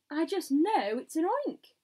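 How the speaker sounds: high, loud insistence; alarmed scream. A narrator's reading. Fire chief screaming his guess, alarmed cry. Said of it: "screamed the head of fi".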